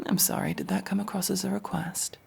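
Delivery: mock-polite whispered threat; sarcastic whisper. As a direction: feign politeness, then bite.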